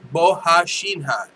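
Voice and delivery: Bohashinha sounded out slowly as bo-ha-SHEEN-ha; slow, careful Bohashinha with an h for the r; corrected pronunciation. Shown as a demonstration. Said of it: "It's not Borachinha".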